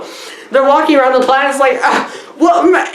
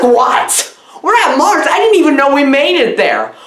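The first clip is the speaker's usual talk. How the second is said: mock surprise; 5 semitones higher than usual.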